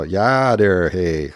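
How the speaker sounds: put-on yah, dare, hey in old-timer Wisconsin accent. Shown as a demonstration. Vlogger demoing how old-timers talk up north. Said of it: "yas and dares and days".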